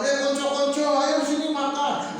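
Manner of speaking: put-on a boarding-school kid shouting his friends over to share; excited child calling friends.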